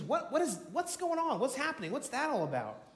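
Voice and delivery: high-pitched, mildly startled questions; puzzled questioning. Acted. Blind man asks the crowd about the noise, puzzled. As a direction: ask in a quick string of rising puzzlement.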